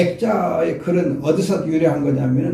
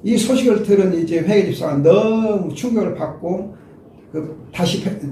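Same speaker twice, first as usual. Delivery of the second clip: usual speaking voice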